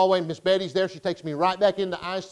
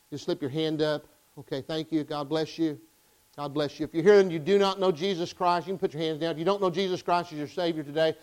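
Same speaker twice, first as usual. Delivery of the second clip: altar call; 2 semitones lower than usual. Acted. Pastor asking the congregation to slip hands up, subdued altar call. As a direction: gently invite a bowed congregation to respond.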